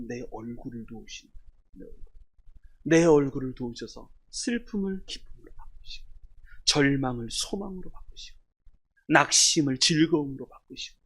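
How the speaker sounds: soft, low, breath-heavy delivery; quiet, reverent listing; hushed preaching. Real, not acted. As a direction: bring it down to a near whisper for the congregation.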